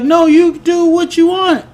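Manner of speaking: high mock wife voice, curt; mock Wanda.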